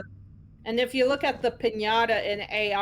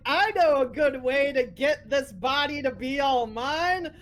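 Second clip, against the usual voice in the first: lightly voiced scheming villain; half-hearted evil plan voice; mock villain voice; 3 semitones higher than usual. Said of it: "He's like".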